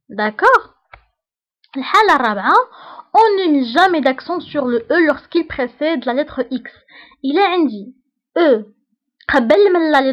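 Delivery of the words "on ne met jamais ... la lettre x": slow, deliberate dictation of a rule; dictating to a class. Shown as a demonstration. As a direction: read it out slowly so students can write. Teacher dictates French rule.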